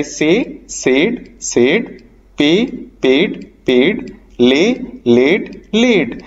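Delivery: "सेड", "पेड", "लेड" all ending in the same long "एड"; slow drill, matching "एड" sound closing "सेड", "पेड", "लेड"; rhyming "एड" endings. Shown as a demonstration. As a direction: chant the verb forms so "सेड", "पेड", "लेड" rhyme. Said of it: "एड वाली ऐसे कुछ आ रही है".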